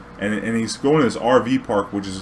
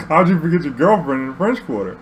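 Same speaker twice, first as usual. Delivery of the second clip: laughing while asking; laughing disbelief; 5 semitones higher, 4 dB louder than usual. Real, not acted. Driver laughing in disbelief at the forgotten girlfriend. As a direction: laugh at the absurdity.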